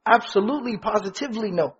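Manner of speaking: absolutely, positively no, leaning on positively; emphatic absolutely positively no. Shown as a demonstration. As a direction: stress positively, then fade to a soft no.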